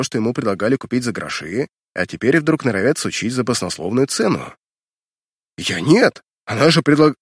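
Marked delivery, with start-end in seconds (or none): 5.6-7.2 stammering and cut off; cut off mid word. Acted. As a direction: break off mid word, flustered. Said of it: "запинаясь".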